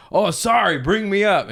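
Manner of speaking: mock apologetic. Retold star arriving late.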